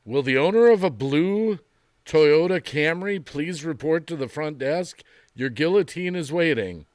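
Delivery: loud store intercom announcement; flat echoey pa page. Pretend. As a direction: page it over the store speakers. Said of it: "It'll be like".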